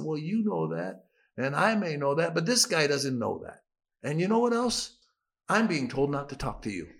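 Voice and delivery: pointed, challenging comeback; pushing back. Retold or imitated. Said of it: "I'm starting to push back now".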